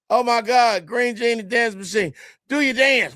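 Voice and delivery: a starstruck third grader begging; excited kid. Retold or imitated. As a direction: kid spotting his TV hero, calling out excitedly. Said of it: "I'm like".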